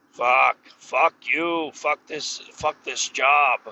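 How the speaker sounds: slow, drawn-out cursing; exasperated swearing. Retold or imitated. Worker grumbling about being told to shave, exasperated. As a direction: curse the job slowly, word by word. Retelling his resentment at shaving order.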